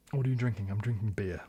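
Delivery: ordinary delivery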